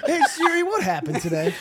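hungover. Pretend. Mock hungover query.

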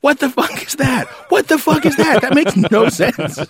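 half-laughing replay of an indignant rant; pissed off. Retold or imitated. Dad retelling his rant to his daughter about dress codes, pissed off. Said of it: "I got so pissed off".

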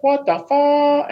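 high, slow, drawn-out shocked yell. Retold or imitated. Seeing his wrist on his forearm, stretched high shocked yell. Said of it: "Joe Warren's like".

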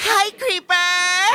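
slow, sing-song flirty greeting; coy, lingering hello; flirty drawn-out hi. Acted. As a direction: stretch the hi out, flirting.

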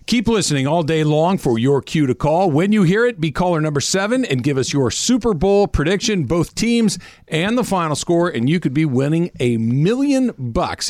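upbeat promo read; radio contest promo. Acted. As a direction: sell it like a radio spot. Host reads contest promo.

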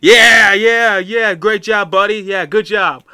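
loud, high cheer after a goal; cheering at the glass. Retold or imitated. Fan at the glass cheering a goal, loud and high. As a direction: bang the glass and cheer him on. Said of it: "and it's just like".

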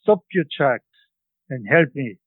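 put-on old woman calling out in a Central European accent, starting high; strong Central European accent. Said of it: "in a strong Central European accent".

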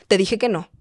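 firme, sin gritar. Shown as a demonstration. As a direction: set a firm limit at normal volume. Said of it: "pero hablamos firme". (voz firme, sin gritar)

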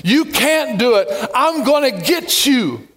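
slow, mocking taunt; preacher voicing the enemy's discouraging taunt. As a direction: sneer at them to make them quit. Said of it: "This voice comes and says".

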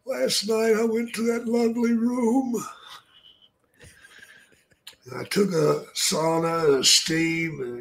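a gloomy undertaker confessing; Paul Bearer impression. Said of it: "He's like".

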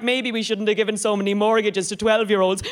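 ordinary delivery

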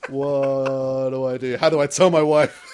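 mock panic through laughter; laughing panic.

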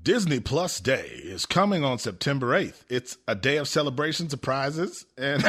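movie trailer announcer voice; over eager infomercial. Acted. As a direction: sell it like a late-night infomercial. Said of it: "That two A M infomercial voice".

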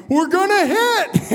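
high, urgent mock yell; yelled warning. Pilot warning passenger just before impact, yelled. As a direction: cry it out with pitch way up. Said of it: "he just yells to me".

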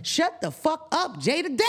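mock yell at Jada.

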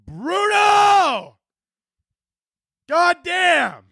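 very high, comic shout; exasperated mock yell. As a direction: cry out in hammed-up despair. Mock scolding a singer.

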